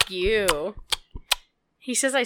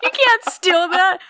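put-on old man voice; 8 semitones higher, 5 dB louder than usual. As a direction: hoot like a cranky grandpa. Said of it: "That's my thing".

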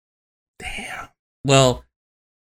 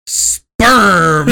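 mom's deadpan answer; 6 semitones higher, 7 dB louder than usual. Retold or imitated.

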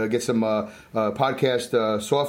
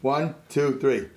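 ordinary delivery

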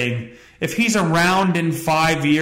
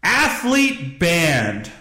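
news headline read; 3 semitones higher, much slower than usual. Shown as a demonstration. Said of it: "have a little news thing here".

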